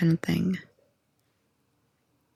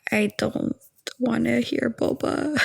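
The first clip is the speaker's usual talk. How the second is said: higher, slow, fed-up reply; annoyed refusal; 5 semitones higher, slower than usual. Retold or imitated. To people who say boba, a higher, slow, fed-up reply. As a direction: drag it out like you're sick of the word. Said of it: "And I'm like".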